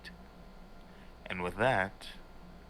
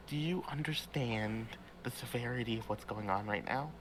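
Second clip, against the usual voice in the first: hushed begging, getting quicker at the end; desperate pleading; 4 dB quieter than usual. Acted. Pam begging Karn to understand, desperate hushed plea. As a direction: plead softly, tripping over repeated pleases.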